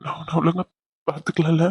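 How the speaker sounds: halting, choked-up confession; tearful guilt. Acted. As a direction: confess to your wife through tears. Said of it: "please அழுகாதீங்க Raghu". (அழுகையோடு தயங்கிய குரல்)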